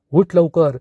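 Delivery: loud, angry order to get up; angry command. Acted. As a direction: bark it at him furiously. Arnav yelling at comatose Rajesh. (रागाने मोठ्याने ओरडून)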